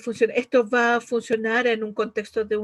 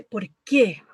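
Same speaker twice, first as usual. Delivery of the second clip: accusing why; 4 dB louder than usual. Shown as a demonstration. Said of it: "Es acusador".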